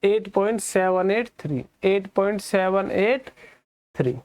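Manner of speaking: सेवन, एट, थ्री read slowly as separate digits. Shown as a demonstration. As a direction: slowly space out "सेवन एट थ्री" after point. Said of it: "ये कितना पढ़ोगे आप?".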